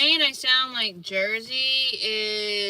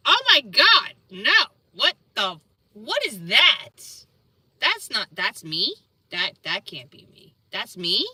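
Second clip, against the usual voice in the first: shocked disbelief; 4 dB louder than usual. Retold or imitated. Speaker recalls seeing themself on video, shocked disbelief. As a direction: act out stunned disbelief, gasp and all. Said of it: "and I was like".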